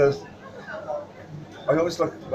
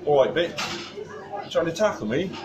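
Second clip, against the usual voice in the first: put-on rubbish English accent; 6 semitones higher than usual. Rugby star greeting the waiter who tripped, rubbish English accent. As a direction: do a quick, half-hearted English bloke accent. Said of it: "I apologise for the rubbish English accent".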